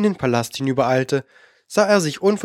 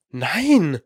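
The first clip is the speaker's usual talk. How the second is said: verstört; 3 semitones higher than usual. A narrator's reading. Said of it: "sagte er verstört".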